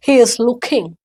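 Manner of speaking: he is looking drawn out slowly, word by word; slow demo. Shown as a demonstration. Teacher slowly models he is looking for the students. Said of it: "लुकिंग नहीं बोलेंगे".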